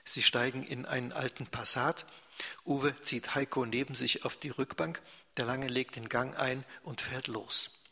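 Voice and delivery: lively read-aloud narration; story narration. A narrator's reading. Liest Erzählung vor. (lebhaft vorgelesene Erzählung)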